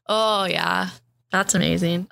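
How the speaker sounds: Canadian accent. Real, not acted. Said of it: "I went full Canadian accent there".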